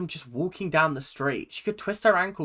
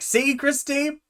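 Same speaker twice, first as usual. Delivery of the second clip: higher, drawn-out mock triumph; gloating; 8 semitones higher, 4 dB louder, much slower than usual. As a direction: crow it loud on the last words, stretched out. Gloating at Christy over crying child.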